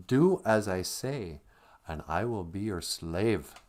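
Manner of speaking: a singer's Goblin King. Retold or imitated. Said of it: "he goes".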